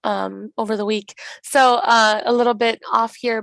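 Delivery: lost voice, a bit rough; hoarse. Real, not acted. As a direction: speak with a worn-out voice. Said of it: "sorry for my voice, I, I lost it".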